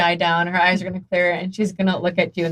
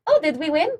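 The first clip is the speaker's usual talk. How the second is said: dazed in-character line; 8 semitones higher than usual. Acted. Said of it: "look at you and say".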